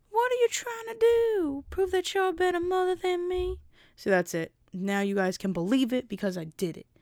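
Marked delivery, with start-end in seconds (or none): 0.1-3.5 very high put-on woman's voice. Speaker proves to the audience she can really do a woman's voice. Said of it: "I could really do her voice".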